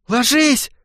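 high, sharp order; urgent high command; commanding shout. A narrator's reading. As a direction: bark the order to drop. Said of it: "приказал очнувшийся Жига".

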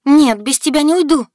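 high, loud tearful cry; sobbing refusal. A narrator's reading. Heroine refusing to leave the wolf, sobbing loudly. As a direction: refuse through a sob. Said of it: "всхлипнула в голос".

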